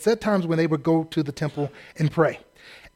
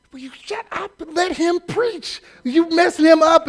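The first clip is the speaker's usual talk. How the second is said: annoyed churchgoer; 11 semitones higher than usual. Retold or imitated. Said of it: "He's like".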